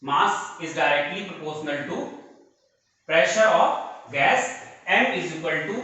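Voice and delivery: very slow, spaced words; slow statement for students to write; slow dictation. Shown as a demonstration. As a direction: dictate the short form slowly. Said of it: "हम क्या कहेंगे".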